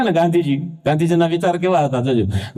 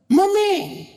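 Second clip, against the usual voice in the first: put-on much higher, whiny little boy; child's voice; 13 semitones higher, much slower than usual. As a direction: call out to mom like a small kid. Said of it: "એક છોકરો એની મમ્મીને કહેતો હતો". (મમ્મીને બોલાવતો નાનો છોકરો, ઊંચા અવાજે)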